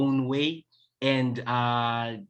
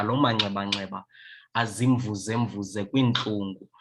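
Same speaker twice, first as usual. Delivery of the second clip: poetry recital in Xhosa. Acted. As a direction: recite the poem with force and flow. Recites her Xhosa poem.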